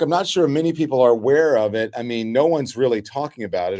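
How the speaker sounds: dry, mock-serious understatement; sarcastic. Real, not acted. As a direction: say it with obvious irony. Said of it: "Of course, I'm being sarcastic".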